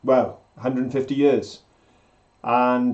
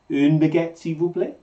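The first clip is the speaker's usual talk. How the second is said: French phrase with a plain Welsh accent. Shown as a demonstration. Proving she speaks French as well, Welsh-accented French. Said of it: "I say it with a Welsh accent".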